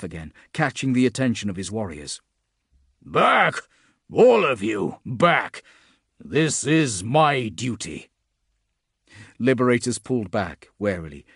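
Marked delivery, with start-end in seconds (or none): 3.0-5.6 loud barked order, pitched high; commanding shout. Acted. Commander orders warriors back. 6.2-8.1 firm resolve. Acted. Commander faces monster alone.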